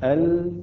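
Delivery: ال with a thin, clear L; light lam. Shown as a demonstration. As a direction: say ال with the tongue tip light on the lam. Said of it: "مرققة".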